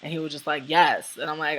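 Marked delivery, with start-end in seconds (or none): 0.7-1.2 short, loud retold yes; curt impatience. Bus driver answering a pestering passenger, curtly impatient. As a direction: imitate a bus driver who's had enough. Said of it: "not having it".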